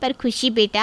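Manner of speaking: plain reading voice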